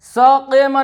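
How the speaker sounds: सकीमा drawn out as "saa-qay-maa"; wrong-example long "saa-qay-maa" for सकीमा; majhool vowel. Shown as a demonstration. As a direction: stretch सकीमा with "ay" in the middle. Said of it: "सकीमा नहीं बोलना है".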